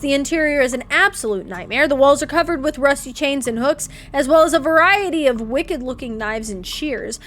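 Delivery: storyteller reading the scene; game narration. A narrator's reading. Narrator describing Chuck's creepy house, storytelling read. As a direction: paint the creepy butcher's house.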